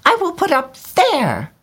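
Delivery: very high delighted bird voice; swallow crying out. A narrator's reading. Swallow spotting the statue, very high and delighted. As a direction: call it out pleased. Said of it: "he cried".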